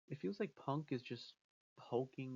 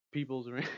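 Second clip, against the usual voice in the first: "people's" punched louder, breaking into a laugh; stress on PEOPLE'S; 7 dB louder than usual. Shown as a demonstration. Fan joking about what Roman didn't say, loud stress on "people's". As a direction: hit "people's" as the absurd option, amused. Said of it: "He didn't say the".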